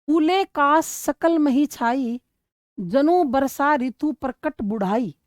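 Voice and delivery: slow, measured reading of a Hindi chaupai; slow classroom verse reading; verse recitation. Acted. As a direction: recite each word deliberately, like poetry in class. Teacher reads verse aloud.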